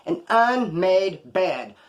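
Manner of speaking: "unmade bed" stretched very slowly; drawn-out emphasis. Real, not acted. Storyteller disgusted at store on an "unmade bed", drawn-out emphasis. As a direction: spell out the outrage by dragging each word of "unmade bed".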